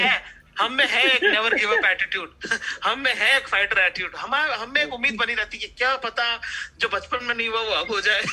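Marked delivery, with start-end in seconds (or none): 0.6-2.8 slow, louder rallying declaration; hammed-up pep talk; mock heroic. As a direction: proclaim it like a motivational poster.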